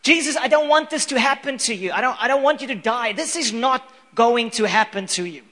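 loud, earnest plea to Jesus; pleading Peter. Retold or imitated. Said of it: "he was like".

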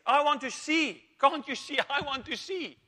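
pleading. Acted. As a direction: beg to see, with a laugh breaking in. Blind man pleads to Jesus.

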